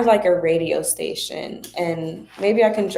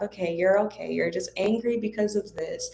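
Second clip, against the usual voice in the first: put-on soft, gentle comfort for a little girl; calm her down tenderly; soothing a child; 5 dB quieter than usual. Mother comforting her daughter through anger, gently. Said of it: "where I'm like".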